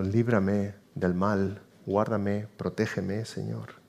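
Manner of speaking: slow, low, soft prayer fading away; hushed plea. Acted. Believer crying out to the Lord for protection, hushed plea. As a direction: plead softly, sinking to almost nothing.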